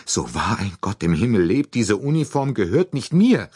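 viel höher und lauter, fremde Stimme; bestürzt aufschreiend; erregter Ausruf. A narrator's reading. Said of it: "rief sie". (die Deutsche beteuert erregt ihre Unschuld, laut und hoch)

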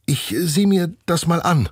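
the teacher steps up bravely, lightly played; daring. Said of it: "sagt Frau Susemihl todesmutig".

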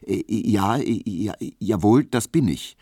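halting, nervous stammer. A narrator's reading. Young barber stammers when asked by the official, nervous stammer. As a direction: trip over the words, unsure. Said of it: "stotterte Emil Kubinke".

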